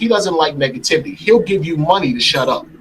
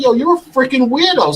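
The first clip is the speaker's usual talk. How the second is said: retold cursing out; 10 semitones higher than usual. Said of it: "So I got angry and I start cursing him out".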